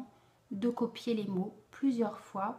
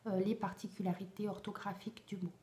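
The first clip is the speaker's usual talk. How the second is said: whispering; 6 dB quieter, faster than usual. Real, not acted. Trailing off in a whisper.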